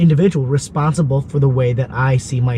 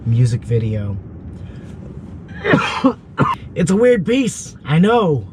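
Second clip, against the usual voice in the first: sick, hoarse and rough voice; lost voice. Real, not acted. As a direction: talk through a hoarse, lost voice. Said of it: "I am so sorry I have no voice".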